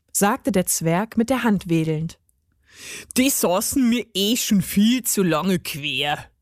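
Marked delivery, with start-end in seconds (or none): 3.2-6.3 put-on dialect dwarf voice; relieved, grumbling gnome. A narrator's reading. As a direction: complain like a cranky little gnome.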